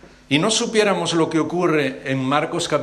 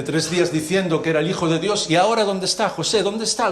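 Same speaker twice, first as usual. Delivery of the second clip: higher, jeering challenge to José; mocking taunt; 4 semitones higher than usual. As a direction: taunt him, the Messiah is gone. Scoffer taunting José at the tomb. (burla desafiante, más aguda)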